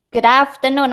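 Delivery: teacher demonstrating how "Good afternoon" is pronounced; model pronunciation. Shown as a demonstration. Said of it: "Masih ingat ya pengucapan good afternoon ya?". (contoh pengucapan "Good afternoon")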